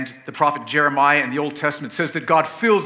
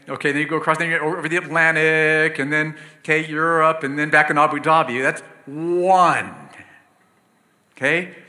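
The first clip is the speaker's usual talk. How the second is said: louder, quickening tour of the globe; animated; 7 dB louder than usual. Real, not acted. Preacher racing an imagined flight around the world, excited. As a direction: carry them around the world with energy.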